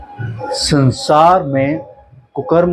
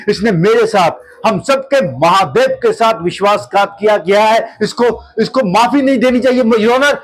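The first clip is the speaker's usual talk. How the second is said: higher-pitched, urgent courtroom denunciation; impassioned plea; 5 semitones higher than usual. Acted. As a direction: plead the accusation with mounting urgency. Advocate's climactic plea against the accused. (ऊँचे स्वर में जोशीली अदालती दलील)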